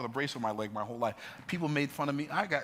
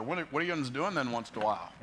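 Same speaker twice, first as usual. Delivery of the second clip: imitating small-town Pennsylvania talk; Lewistown, Pennsylvania accent. Shown as a demonstration. Showing how Lewistown people talk, Pennsylvania accent. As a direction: put on a Lewistown, Pennsylvania twang. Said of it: "They talk like this here".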